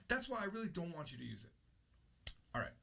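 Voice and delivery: ordinary talk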